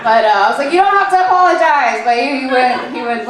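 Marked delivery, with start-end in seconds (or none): 0.7-2.0 retold insistence. Acted plea to apologizing boyfriend.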